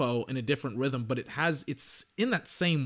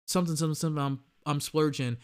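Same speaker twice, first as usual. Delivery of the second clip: drowsy placeholder rap, trailing softer; half-asleep rapper; 5 dB quieter, faster than usual. Retold or imitated. Mocking the new song's lack of energy, half-asleep mumble. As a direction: lazily fill in the forgotten words. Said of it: "he just sounds like he's half asleep".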